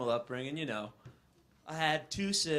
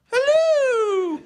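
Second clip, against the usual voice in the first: loud hammed-up shout; 10 dB louder than usual. Mock French monarchy shout.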